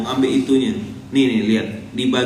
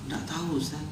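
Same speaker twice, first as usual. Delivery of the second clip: much softer, sheepish reply; meek excuse; 13 dB quieter than usual. Acted. Debtor answering the preacher about riba, meek and soft. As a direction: play a meek man owning up quietly.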